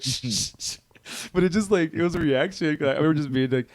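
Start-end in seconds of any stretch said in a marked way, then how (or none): 0.0-0.8 repeated hissed shush; mock shushing. Everyone in the theater hushing the fans, mock shushing. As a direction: imitate an annoyed crowd's hush.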